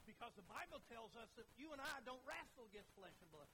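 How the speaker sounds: urgent, emphatic pulpit questioning; forceful preaching. Real, not acted. Preacher explaining spiritual battle to the church, forcefully. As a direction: press the congregation with each question. Preacher presses a point on congregation.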